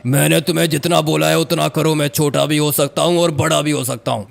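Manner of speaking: lightly voiced ghost laying down terms; even-pitched, commanding spirit voice. Ghost telling a man the price of help, commanding. Ghost figure asserts its powers.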